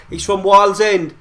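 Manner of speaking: slow, loud angry outburst; rising anger at the scorer, spelled out slowly; real fan fury building; getting angry. Real, not acted. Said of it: "I'm getting angry as I speak now".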